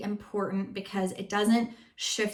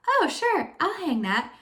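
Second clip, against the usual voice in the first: mock husband; 9 semitones higher, 4 dB louder than usual. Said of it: "he'll be like".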